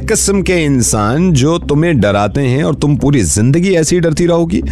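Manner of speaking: high, pressing urging; impassioned. Real, not acted. Radio host urges the caller to be brave, impassioned. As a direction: push her to stand up.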